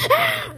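short, high-pitched yelp. Real, not acted. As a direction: let out a sudden high "ah". Sudden cry amid play.

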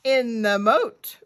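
loud, declarative pronouncement; pronouncing. Acted. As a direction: announce it firmly. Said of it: "pronounced the goat".

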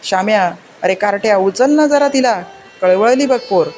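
a hint of a furious, grief-maddened mother; angry mother. Mother scolds her son while the baby cries, angry. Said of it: "आई रागवून दुःख संतापने वेडी होऊन बोलत होती".

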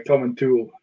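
"Tool" said with an oo vowel; the misread "Tom and Tool"; common mispronunciation. Shown as a demonstration. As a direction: say "Tool" to rhyme with pool. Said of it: "throw another one in there".

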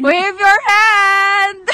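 slow, loud call across distance. Real, not acted. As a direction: stretch the words out to reach them. Calling instruction across distance.

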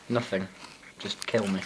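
very soft, low deadpan; muted gloom. Pretend. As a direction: mumble it low, as if giving up. Deadpan gloom after a long silence.

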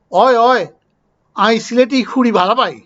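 a light Sylheti Bengali accent, lightly done; Sylheti dialect. Shown as a demonstration. Giving viewers a small example, in light Sylheti dialect. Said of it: "এটা সিলেটি".

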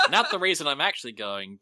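loud, through real laughter; laughing. Real, not acted. Player answers a teammate's joke, laughing. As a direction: still cracking up while talking. Amused by teammate's joking reason.

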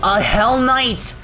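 dismayed cry, drawn out high; alarmed. Real, not acted. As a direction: groan out the name in dread. Dreaded enemy appears in game.

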